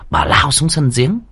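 usual speaking voice

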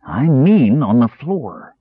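slow, weary and pressing; exasperated mage, slowed right down. A narrator's reading. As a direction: drag it out, running out of patience.

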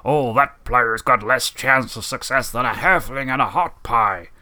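slow, sing-song sports commentator character; drawn-out, hammy commentator voice; game commentator impression. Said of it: "it was when he's like".

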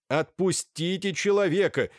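doctor shouting angrily at the porter to let the man go; angry shout. A narrator's reading. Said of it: "закричал на швейцара доктор".

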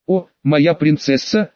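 slow, heartfelt declaration. Acted. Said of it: "с чувством заговорил я".

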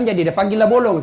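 ordinary talk, nothing marked

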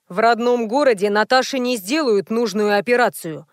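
plain reading voice

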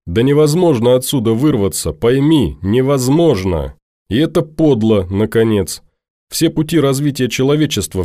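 put-on upset young woman arguing hard; heated girl Norris. Norris angrily argues.

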